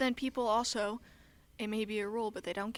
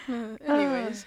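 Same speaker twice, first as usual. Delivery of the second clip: drawn-out anyways; 3 semitones higher, 9 dB louder than usual. Real, not acted. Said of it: "anyways repeated as a bit".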